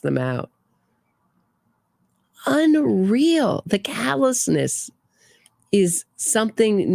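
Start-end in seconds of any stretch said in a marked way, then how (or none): 2.5-6.9 outraged disbelief at the callousness; incredulous. Real, not acted. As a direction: say it like you can't believe it. Outraged at couple's People interview.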